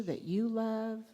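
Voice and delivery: drawn-out mock British affirmation; British accent. Answering as the group wanted, playful British accent. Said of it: "They wanted me to say that in a British accent".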